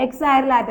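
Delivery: എക്സാരിലാറ്റ read as ek-saa-ri-laa-ta; reading out pronunciation. Shown as a demonstration. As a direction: sound out എക്സാരിലാറ്റ with a long "laa". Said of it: "ഞാൻ ഇങ്ങനെയാണ് വായിക്കണം". (എക്സാരിലാറ്റ "ലാ" നീട്ടി ഉച്ചരിച്ച്)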